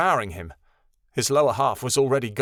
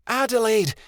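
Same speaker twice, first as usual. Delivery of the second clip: calling out; 10 semitones higher than usual. A narrator's reading. Midnight Star calls her lost friends in the forest. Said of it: "she called into the dark trees".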